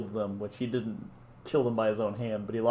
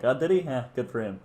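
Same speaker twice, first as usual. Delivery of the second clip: mock unimpressed Zio. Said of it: "Zio was like".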